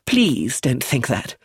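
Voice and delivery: high, slow plea; crying out. A narrator's reading. Edith begging Philip not to think that, crying out. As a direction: plead with him slowly. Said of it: "cried Edith de Havilland".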